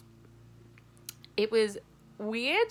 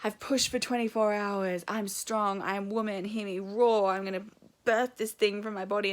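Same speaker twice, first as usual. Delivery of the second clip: mock warrior mum; 3 dB louder than usual. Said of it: "I didn't go through that whole".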